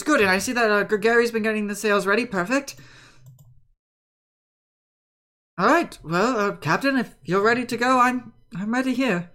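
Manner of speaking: lightly voiced helpful deckhand; eager sailor briefing his captain. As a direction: report keenly to the captain. Plays Ben briefing the captain.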